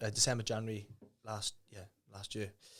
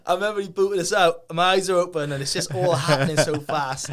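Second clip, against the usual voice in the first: higher and louder, rushing with thrill; excited retelling; 5 semitones higher, 12 dB louder than usual. Retold or imitated. Telling a friend about the freefall, higher and louder with thrill. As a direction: relive the freefall buzz. Reliving being booted out.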